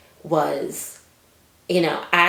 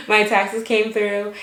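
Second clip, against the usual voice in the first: thrilled; 5 semitones higher, 5 dB louder, slower than usual. Real, not acted.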